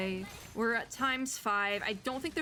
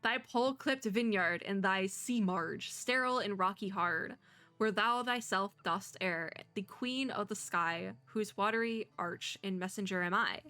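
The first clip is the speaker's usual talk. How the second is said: reading the game's poem to viewers; reading a poem aloud. Acted. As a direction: recite it with care. Reads game poem aloud.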